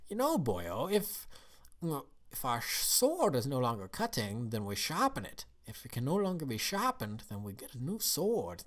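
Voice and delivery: lightly done Scottish dad voice; a hint of hammed Scottish accent, swooping pitch; Spitelout. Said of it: "and Spitelout said".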